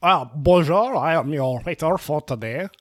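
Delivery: put-on a light French accent, polite waiter to a diner. French-accented waiter welcomes a lone diner. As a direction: greet her like a snooty French waiter. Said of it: "I am losing this accent".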